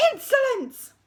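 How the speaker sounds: high, loud outraged shout; deputy head shouting insolence; furious shout. Acted. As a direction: spit it out in outrage. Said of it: "shouted the head".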